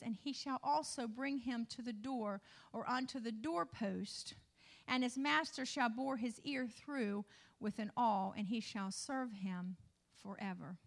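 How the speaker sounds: measured reading of a Bible passage; understated, formal pulpit reading; scripture reading. Real, not acted. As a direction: read the verse out evenly to the congregation. Reads scripture aloud.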